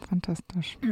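unvoiced sarcastic whisper. Real, not acted. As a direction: whisper it dryly. Dry muttered sarcastic aside.

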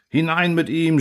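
high, demanding crowd cry; mob shout. Acted. The crowd demands he go into the boiling tub, high. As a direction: shove him in. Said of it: "schrie die Menge".

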